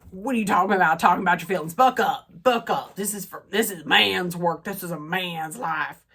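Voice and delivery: a hint of a tough cowboy telling him to buck up; lightly voiced macho rancher, buck up; gruff cowboy voice. Vlogger voicing a cowboy dismissing feelings, mild gruff tone. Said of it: "what's with all the voices that I'm doing".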